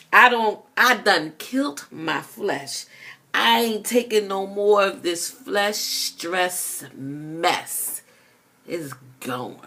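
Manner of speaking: rhythmic spoken-word delivery, punching the rhymes; spoken word poem. Acted. Poet reciting to her listeners, spoken-word style. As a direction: perform the poem like a slam reading.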